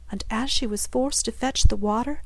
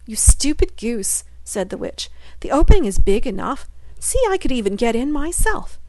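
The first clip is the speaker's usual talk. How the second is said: scornful witch; 2 semitones higher, 4 dB louder than usual. Acted. Witch mocking Gretel as a stupid goose, scornful. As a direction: sneer at the silly girl.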